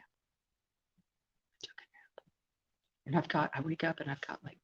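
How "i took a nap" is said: slow, drawn-out whisper. Real, not acted. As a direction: whisper it slowly.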